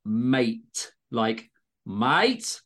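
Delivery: mate drawn out as maɪt; mate gerekt met zware y-klank, maɪt; Aussie mate. Shown as a demonstration. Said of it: "heavy emphasis on the Y in mate".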